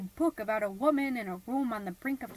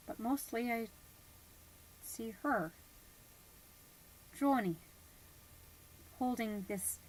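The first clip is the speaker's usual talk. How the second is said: hushed awe. Acted. Awed quiet climax.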